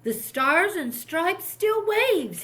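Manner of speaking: slow, high and loud triumphant call; shouted. A narrator's reading. Jed sees the flag at dawn and shouts it out, triumphant. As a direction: proclaim it to the whole harbor. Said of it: "he shouted".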